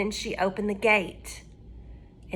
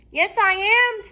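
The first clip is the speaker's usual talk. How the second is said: high, louder cat pretending; cat faking the girl; 11 semitones higher, 5 dB louder than usual. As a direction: fake the girl's answer as the cat. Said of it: "said the cat".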